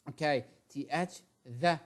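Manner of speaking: "the" said with the tongue between the teeth; voiced th in "the"; TH sound. Shown as a demonstration. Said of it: "Don't forget".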